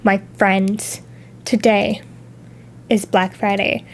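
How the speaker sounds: low and soft, building suspense; hushed dramatic reveal. Acted. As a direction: drop the voice like revealing a secret. Dramatic reveal of Black Friday.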